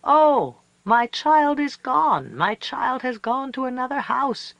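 high, loud, slow lament; grieving wail. A narrator's reading. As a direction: wail over the lost child. Coyote grieving loss.

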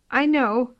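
high little kitten voice, curious; a timid kitten asking. Acted. Kitten talks.

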